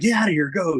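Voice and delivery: playful shoo. Retold or imitated. Shooing kids off to play.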